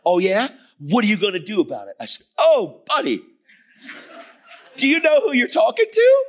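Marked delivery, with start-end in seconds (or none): 0.1-1.9 defiant challenge. Retold or imitated. Angry man challenges preacher. 2.4-6.2 much higher, louder, laughing as he asks; gleeful laughing retort. Retold or imitated. Preacher answers angry man gleefully.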